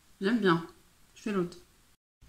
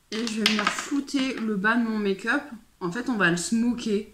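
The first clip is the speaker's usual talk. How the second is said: mouth propped open. Real, not acted. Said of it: "je sais pas pourquoi on ouvre la bouche".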